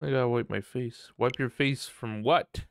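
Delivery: ordinary talk, nothing marked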